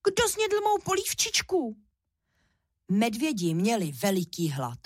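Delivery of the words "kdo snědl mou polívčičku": high thin unhappy squeak; a tiny cub wailing over his empty bowl; little bear squeaking in distress; squeaky little bear cub. A narrator's reading. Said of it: "Vypískl nešťastně tenkým hláskem".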